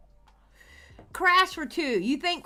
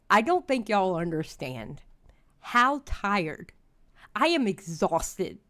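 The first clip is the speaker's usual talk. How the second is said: weary, low and tired; 5 semitones lower than usual. Real, not acted. Weary complaint about chat leaks.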